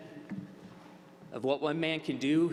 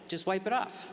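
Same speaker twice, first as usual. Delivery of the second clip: lightly acted, higher-pitched exasperated retort; retold exasperation; 8 semitones higher than usual. Imitating a friend fed up over the mustard, exasperated. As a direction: toss it out high, imitating a friend's impatience.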